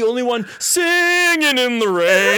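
slow loud joyful voice; gleeful. Retold or imitated. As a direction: revel in it. Singing in the rain joy.

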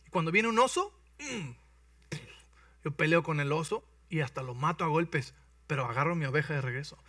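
lightly voiced confident shepherd boy; boastful boy David. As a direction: sell yourself to the king. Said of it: "Y dice".

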